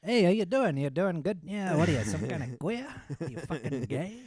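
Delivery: put-on loud high Italian-American mobster accent; brash Italian-American wise guy. Showing off his Italian guy, loud Italian-American accent. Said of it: "this Italian guy".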